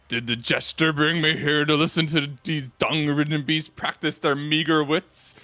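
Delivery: lightly voiced brute, slow; bestial warrior voice. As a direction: growl out contempt for the beasts. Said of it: "doesn't have voice acting".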